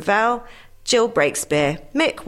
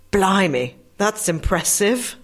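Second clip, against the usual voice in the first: mock amazement, punchline jumping much higher; hammed-up wonder at a talking dog; amazed horse; 3 semitones higher than usual.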